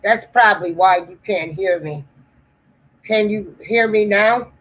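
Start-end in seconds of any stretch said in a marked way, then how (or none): 3.0-4.5 distant, off-mic voice; sounding from the background; barely audible. Real, not acted. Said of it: "you sound like you're in the background".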